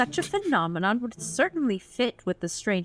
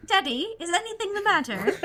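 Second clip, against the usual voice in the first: high worried voice; 12 semitones higher than usual. Acted. Character line, giggling reader.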